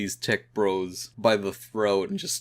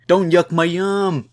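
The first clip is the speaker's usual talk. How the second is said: loud, high, drawn-out whiny protest; stretched-out, indignant comic-book yell; tantrum yell; 8 semitones higher, 9 dB louder than usual. Retold or imitated. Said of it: "having a little tantrum and she's yelling".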